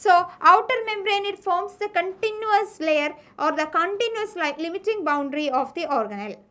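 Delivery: slow, deliberate textbook dictation; teacher dictating notes slowly. Shown as a demonstration. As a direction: read it out word by word for notes.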